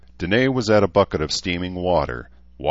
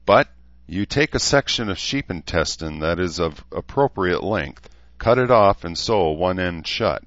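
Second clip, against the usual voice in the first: dryly; 4 semitones higher, 5 dB louder than usual. Acted. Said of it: "Edmund said dryly".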